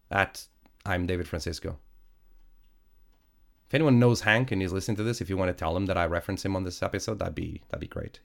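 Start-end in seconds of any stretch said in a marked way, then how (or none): 3.7-8.2 talking through a blocked nose; stuffy nose. Real, not acted. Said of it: "If I sound a bit, um, stuffy".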